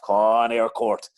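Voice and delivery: loud slow cheer; roar. Retold or imitated. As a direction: call it out across the pitch. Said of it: "I let a roar off".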